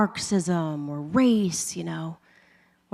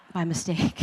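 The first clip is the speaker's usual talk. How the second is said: laughing. Real, not acted. Laughing repeat of punchline.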